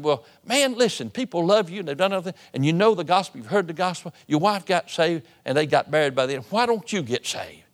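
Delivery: a preacher losing patience in the retelling; exasperated pleading. Retold or imitated. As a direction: lean in hard on the young man, half angry. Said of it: "kinda got in the flesh".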